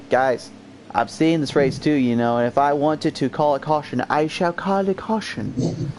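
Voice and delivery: a mock queen in a light British accent, last phrase slowed; hammed-up royal British accent, drawing out the final words; bad British accent. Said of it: "Why are you doing that bad accent?".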